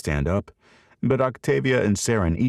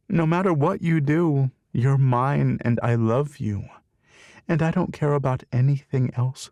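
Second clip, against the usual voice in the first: fierce loving mother; 7 semitones higher than usual. Acted. Saren reassures Jake, insistent.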